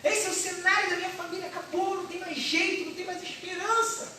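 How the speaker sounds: high, hopeless lament to the pastor; despairing believer. Acted. Believer telling the pastor all is lost, high and hopeless. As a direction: cry out that nothing is left. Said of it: "você diz".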